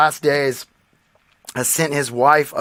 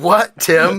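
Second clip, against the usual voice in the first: ordinary talk, nothing marked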